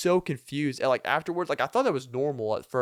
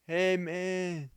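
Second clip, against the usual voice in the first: light imitated Hispanic accent, higher; a casual Hispanic-accented greeting, lightly done; 6 semitones higher, 3 dB quieter than usual. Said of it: "Didn't do the best Hispanic accent ever".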